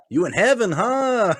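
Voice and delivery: high teasing voice; imitating Marco teasing. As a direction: needle him like a grinning buddy. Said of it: "he'll be like".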